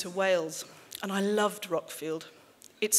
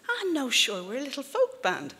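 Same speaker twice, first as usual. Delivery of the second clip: lilting, higher-pitched Irish voice; Irish accent; 6 semitones higher than usual. Acted. Irish band member answering mum about heavy rock, Irish accent. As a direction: play an Irish musician, voice lifted into an Irish accent. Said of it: "Excuse the Irish accent".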